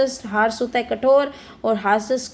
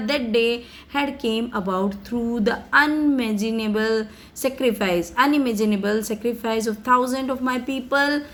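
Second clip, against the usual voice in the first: slow, careful read of a speech text; slow reading aloud; much slower than usual. Acted. Teacher reading Mandela's speech to students, slow and careful. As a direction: read each English word slowly for the class.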